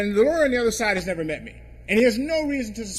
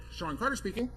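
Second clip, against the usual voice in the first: white voice; 2 semitones higher, 7 dB quieter than usual. Retold or imitated. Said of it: "I had been using my white voice".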